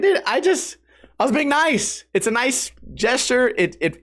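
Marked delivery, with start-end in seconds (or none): 0.0-2.0 wounded protest. Retold or imitated. Acting his hurt protest.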